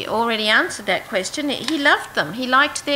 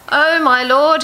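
a louder alarmed cry of dismay; 3 semitones higher, 6 dB louder than usual. Acted. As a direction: call out in sudden dismay. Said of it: "he cried".

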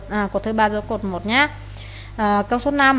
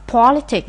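"politics" stressed on POL; first-syllable stress; 4 semitones higher, 4 dB louder than usual. Shown as a demonstration. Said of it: "nhấn âm một".

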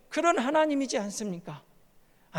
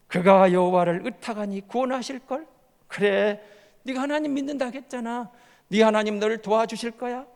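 sneering, taunting the believer; mocking taunt. Enemies taunting the suffering psalmist, sneering mockery. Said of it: "조롱하는 거예요".

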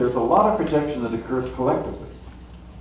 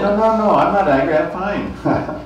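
higher, louder mock-innocent denial of the wife; imitating the wife; 8 semitones higher, 6 dB louder than usual. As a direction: play the wife brushing it off, pitched up. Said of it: "And she replies".

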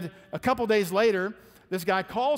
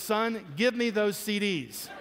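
laughing; 3 semitones higher, slower than usual. Retold or imitated. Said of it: "he says".

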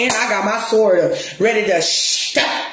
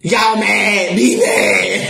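defiant shout; much slower than usual. Real, not acted. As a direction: shout them off: be mad then. Rant at haters, shouting.

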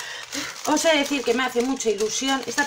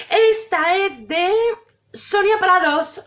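announcer; 6 semitones higher, 4 dB louder, slower than usual. Acted. Announcing each postcard sender.

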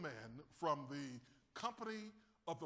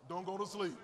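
Don't go to sleep, said with some attitude; 4 dB louder than usual. Shown as a demonstration. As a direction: throw a bit of attitude at your neighbour. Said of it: "You gotta say it with attitude".

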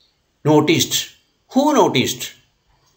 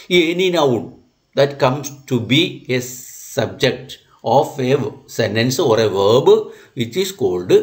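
slow, deliberate dictation of a rule; much slower than usual. Acted. Teacher dictating a grammar rule to the class, slow and deliberate. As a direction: spell the rule out slowly so they can write it.

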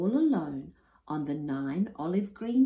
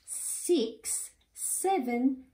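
counting up, rising much higher and louder; building excitement; 11 semitones higher, 3 dB louder, much slower than usual. Acted. Father counting his chicks, growing more excited. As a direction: climb with each number.

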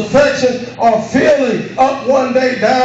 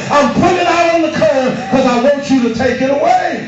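preaching at full force; 3 semitones higher than usual. Acted. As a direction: drive every phrase home. Preacher shouting the prayer.

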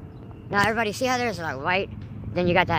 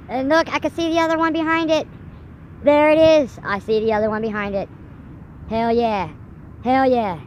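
excited; 5 semitones higher, 5 dB louder than usual. Real, not acted. Excited at second sun.

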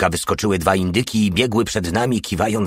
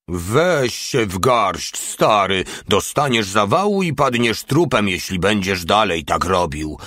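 fatherly warning. Acted. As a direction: gently warn him like a father would. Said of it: "ostrzegł ojcowskim tonem". (z lekko ojcowskim, ostrzegawczym tonem)

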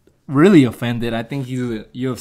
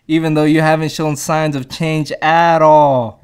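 a touch of raised-voice reproach; mildly indignant scolding; 5 dB louder than usual. Retold or imitated. Son scolds his irresponsible father, mildly indignant lecture. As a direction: build to a louder, exasperated finish.

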